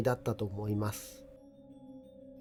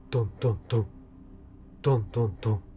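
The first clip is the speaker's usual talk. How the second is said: knocking sound; 2 semitones lower, much faster than usual. A narrator's reading. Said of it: "天井の板を叩く音が聞こえました".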